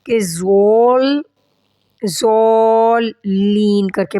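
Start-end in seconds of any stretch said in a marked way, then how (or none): 0.2-1.2 زول said slowly, the lam cut off; wrong pronunciation. Shown as a demonstration. Teacher showing students the common mistake. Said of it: "majority کی mistakes یہی ہوتی ہے".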